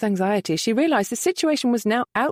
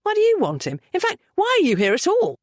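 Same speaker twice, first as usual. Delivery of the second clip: higher, puzzled questions; bemused; 11 semitones higher, 3 dB louder than usual. A narrator's reading. Nephew puzzled by his uncle's visit, bemused. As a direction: ask it baffled. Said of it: "Luke asked in bemusement".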